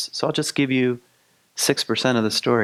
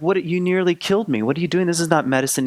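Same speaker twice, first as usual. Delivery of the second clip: higher-pitched indignant protest; acted outburst of mild anger, voice raised in pitch; mad; 5 semitones higher than usual. Mouse mad at Frog after nearly drowning, indignant. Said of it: "he's mad at Frog".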